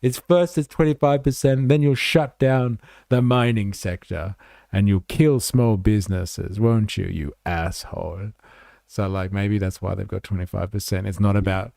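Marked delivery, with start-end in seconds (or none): 0.0-8.3 mock hectoring senator. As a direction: badger him like a ranting politician. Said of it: "And she's like".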